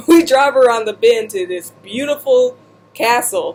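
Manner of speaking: laughing. Real, not acted. Retelling, laughing.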